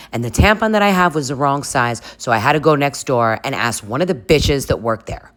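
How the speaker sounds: mildly hammed-up indignant excuse; defensive snapping. Accused of being gone an hour, indignant excuses. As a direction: argue back, pitch jumping on the key words.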